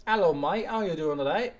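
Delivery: mock London greeting in a put-on accent. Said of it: "like, a London accent".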